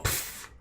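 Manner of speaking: short puff of air; a quick, unvoiced "pff" for a slip; slipping sound effect. Game master narrating a climber's fall, puffed sound effect.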